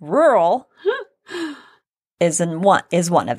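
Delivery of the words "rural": "Rural" with the R's softened toward w, laughing. Real, not acted. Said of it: "I can't say that word".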